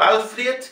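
Alfred as "AL-fryet"; gliding E. Shown as a demonstration. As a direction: model Alfred in Russian style. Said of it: "la E es I".

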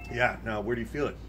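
tongue on fire from chili; tight, subdued talk through heat; mouth burning from spicy food. Real, not acted. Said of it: "coming off my tongue like a fire".

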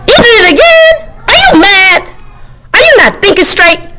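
the book character, aghast; shocked book. Acted. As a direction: gasp at the reader.

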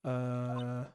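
high, eager collector, loud and pleading; excited high voice. Acted. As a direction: gush over the card, almost begging. Card collector begs for card.

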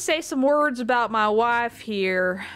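mock-solemn Southern widower; Southern accent. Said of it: "the Southern accent Pogger".

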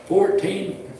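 emphatic, deliberate numbered read-out; steady pulpit reading, punching each item; reading a list aloud. Real, not acted. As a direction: proclaim each point to the congregation. Reads numbered list to congregation.

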